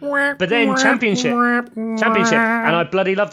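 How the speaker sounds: gleeful Championship cheer; excited. Real, not acted. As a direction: lift it, delighted at the thought. Excited about relegation league.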